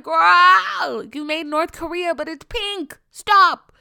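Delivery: high, loud hammed-up scolding; exasperated, high-pitched mock telling-off; mock outraged shout. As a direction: yell at yourself in comic disbelief. Acts out scolding herself.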